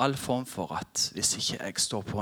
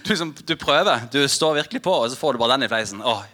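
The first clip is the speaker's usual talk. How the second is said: exasperated; 2 semitones higher, 6 dB louder, faster than usual. Real, not acted. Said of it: "Å, himla".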